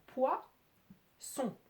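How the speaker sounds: poids, long pause, son; split into syllables. Shown as a demonstration. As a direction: sound out poids... son as two beats. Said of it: "j'entends poids".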